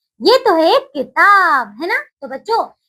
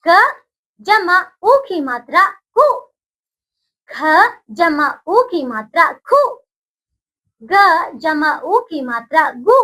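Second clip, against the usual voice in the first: recitation drill. Shown as a demonstration. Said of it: "आप बोलेंगे मेरे साथ बच्चों".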